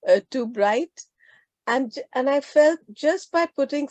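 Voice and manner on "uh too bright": slightly hoarse, frog in the throat. Real, not acted. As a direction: talk through a sore, rough throat. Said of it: "my throat is not feeling, uh, too bright".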